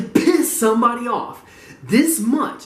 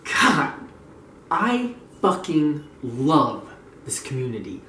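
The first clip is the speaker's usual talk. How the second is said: slow, lower, softer declaration of love; fond sincerity; 4 semitones lower, 3 dB quieter, slower than usual. Real, not acted. Telling viewers of love for the community, slow fondness. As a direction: savour each word, low and slow.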